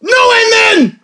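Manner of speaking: high cracking repeated and then. Real, not acted. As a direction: stumble with a cracking voice. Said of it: "you hear my voice crack?".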